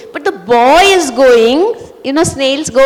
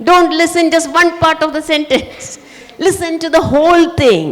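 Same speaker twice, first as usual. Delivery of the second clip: teacher's instruction; 5 semitones higher than usual. Retold or imitated. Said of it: "I'm sure your teachers are always saying".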